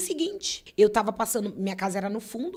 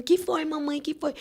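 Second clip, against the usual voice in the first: put-on small child; 7 semitones higher than usual. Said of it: "veio correndo".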